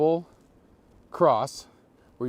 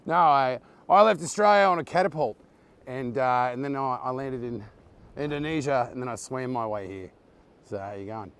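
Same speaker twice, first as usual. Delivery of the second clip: put-on Australian accent; 4 semitones lower than usual. Joking about leaving Australia by catapult, put-on Australian accent. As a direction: spin a tall tale in mock Aussie. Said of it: "I completely lost my Australian accent".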